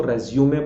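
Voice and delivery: रिज्यूमे said as "rez-yoo-may"; correct pronunciation. Shown as a demonstration. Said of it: "तो आज से बोलेंगे रिज्यूमे".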